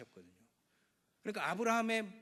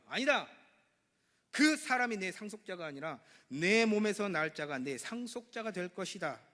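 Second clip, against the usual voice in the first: God answering firmly; 3 semitones higher, 6 dB louder than usual. Acted. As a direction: answer like God settling the matter. 하나님의 응답을 연기함. (하나님이 단호하게 선언하듯)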